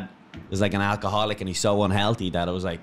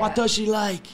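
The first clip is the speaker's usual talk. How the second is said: high, hammed-up question; mock amazed fan; 11 semitones higher than usual. Co-host voicing fans wondering, high mock bafflement.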